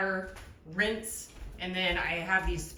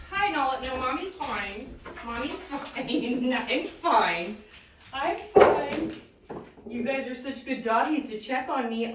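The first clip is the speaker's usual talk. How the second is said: sweet pet-talk to the dogs; cooing at her dogs; 2 semitones higher than usual. Real, not acted.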